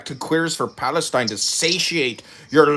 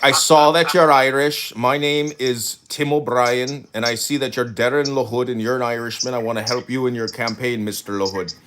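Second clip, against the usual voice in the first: pretend Irish caller; 4 semitones lower than usual. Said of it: "and be like".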